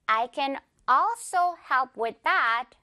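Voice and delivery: very slow sentence with a long AL in also; slow right down, leaning on the start of also; stress on AL of also. Shown as a demonstration. Teacher models for repetition, slow front-stressed also. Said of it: "all의 강세".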